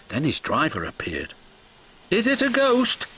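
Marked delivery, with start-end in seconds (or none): 2.1-3.1 high-pitched nervous little engine. A narrator's reading. Thomas asking his driver about the shed, nervous. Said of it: "asked Thomas nervously".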